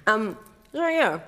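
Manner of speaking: talking with a mouth full; eating crunchy fried chicken. Real, not acted. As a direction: speak through a bite of chicken. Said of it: "Sorry, I'm eating some chicken".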